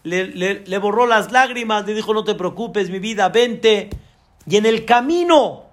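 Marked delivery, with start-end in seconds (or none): 2.1-3.9 reassuring. Retold or imitated. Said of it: "la Rabbanit la tranquilizó".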